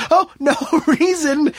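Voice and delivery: high, slow, breezy chuckled denial; laughing dismissal. Acted. Smith brushing off David's question, laughingly evasive.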